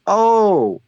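high, loud drawn-out exclamation; changed tone. Retold or imitated. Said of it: "tone in his voice".

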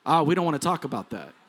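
quick, low aside; mock reluctance. Preacher voicing a congregation's reluctance about gender talk, dismissive. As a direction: toss it off low and fast.

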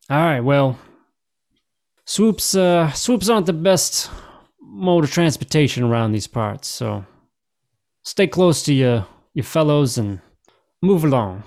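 lightly voiced advising officer; in-character officer, high then settling; officer moving people along. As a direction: send the travellers on with a warning. Officer sends the party on.

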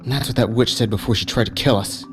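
firm, hard-edged accusation; steely. Acted. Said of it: "There was steel in Ajax's voice".

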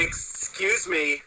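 slow, pointed "excuse me" with each syllable drawn out. Real, not acted. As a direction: stretch out "excuse me" to demand silence. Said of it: "I'm speaking".

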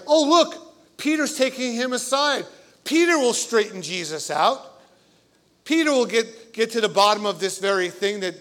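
a bright, laughing burst of hope; excited disciples. Retold or imitated. Disciples imagined cheering Peter on.

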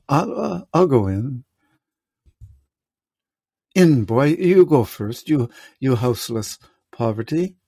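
solemn, measured Shakespearean king; classical stage actor. Acted. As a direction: declaim it like a stage Lear. S0 reads King Lear aloud.

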